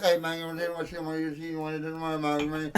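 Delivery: fast, mumbled Boomhauer-style rambling; a lightly done drawling Southern guy, words running together; Boomhauer impression. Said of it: "Like, like Boomhauer".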